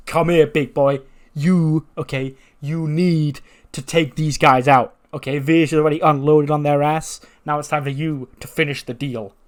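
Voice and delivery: rally your big man to attack; commanding manager. Retold or imitated. Manager ordering Sanga to finish the deal, commanding.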